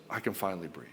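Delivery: low, soft retold sigh of relief; relaxed relief. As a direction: imitate a wife finally at ease. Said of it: "she can relax".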